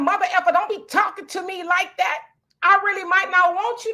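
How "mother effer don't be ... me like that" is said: a fast, heated mock snap; venomous. Shown as a demonstration. Demo of the wrong way to confront someone, heated snap. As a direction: throw venom at them, quickly. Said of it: "I put venom on top of venom".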